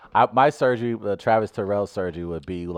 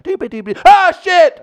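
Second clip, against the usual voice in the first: high yelp of pain; pained yell; 14 dB louder than usual. Retold or imitated. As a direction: cry out from a twisted ankle. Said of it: "He'll be like".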